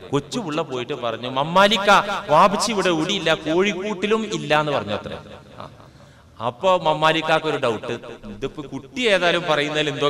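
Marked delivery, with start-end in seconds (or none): 1.3-4.7 lightly voiced child, quick and open; innocent child's report. Little child telling the visitor father is out, innocent. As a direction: relay the message guilelessly in a normal voice.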